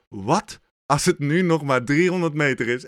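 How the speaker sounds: inner mantra. Retold or imitated. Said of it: "had ik een nieuw mantra".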